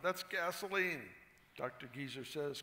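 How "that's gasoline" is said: high shouted outburst, slowed; a startled scream at the taste. Acted. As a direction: scream it out in shock. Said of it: "Doctor Young screams out".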